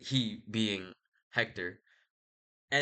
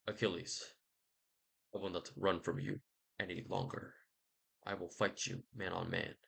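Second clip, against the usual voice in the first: Hector; 4 semitones lower, 7 dB quieter than usual. Retold or imitated. Acted Hector challenging Achilles.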